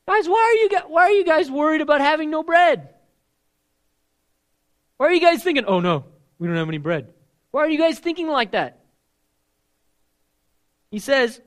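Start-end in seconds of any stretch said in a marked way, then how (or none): 0.1-8.8 preaching rebuke. Acted. Preacher paraphrasing Jesus' rebuke.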